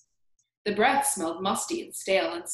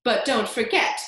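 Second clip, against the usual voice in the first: spiteful aunt voice; 3 semitones higher, 6 dB louder than usual. Acted. Aunt Spiker voiced by narrator.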